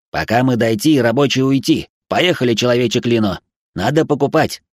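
insistent high robot voice. Acted. Robot Spy.

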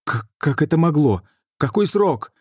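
man demanding how far along, crying out; shouted out. A narrator's reading. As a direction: blurt the question out in panic. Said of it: "выкрикнул Адриан".

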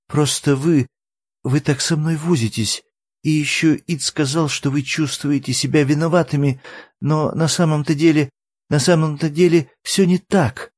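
put-on a guilty girl near tears; tearful young Eri. A narrator's reading. Eri tearfully confesses to the fiddler, high and tearful.

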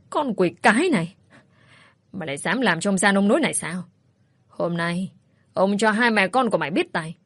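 a touch of angry cursing from a bleeding father; mildly voiced curses, not a full yell. Father curses daughter after she strikes him, mildly angry. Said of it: "ôm lấy đầu chảy máu chửi bới".

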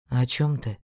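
lightly voiced young man; Einar voice. A narrator's reading. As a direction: read him low and offhand.

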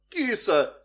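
put-on high, loud child's cry; high-pitched teasing call; boy's yell. A narrator's reading. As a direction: shout the pet name like a boy. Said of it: "закричал мальчик".

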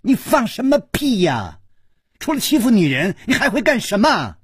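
high, furious outburst; indignant high-pitched yelling; tearful roar. A narrator's reading. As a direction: lash out in a wronged, crying rage. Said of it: "跳起来哭吼着说".

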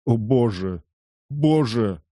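moaning. Acted. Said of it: "простонал".

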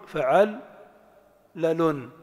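فعل, a pause, then لال as its own beat; syllable by syllable. Shown as a demonstration. Teacher putting the whole pattern together, syllable by syllable. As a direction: sound out فعل and لال separately. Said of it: "حاول تعتمد دائمًا على التنغيم الصوتي".

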